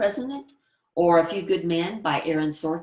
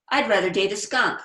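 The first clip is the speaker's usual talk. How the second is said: higher, tossed-off sarcastic jab; 4 semitones higher, 5 dB louder than usual. Acted. Sarcastic girl refusing a boy's date request. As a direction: sneer it lightly. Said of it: "As a sarcastic character".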